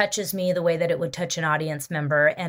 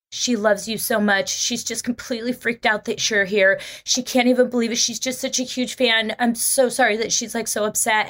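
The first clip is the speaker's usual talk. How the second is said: lightly voiced friend, a little higher; apologetic friend; 4 semitones higher than usual. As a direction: play the worried friend explaining, lightly. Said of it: "her friend is like".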